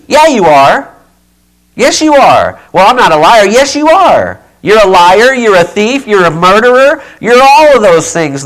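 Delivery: loud, rising preacher's cry; preaching yell. Real, not acted. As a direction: hammer the accusation home, loud. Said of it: "I started yelling again".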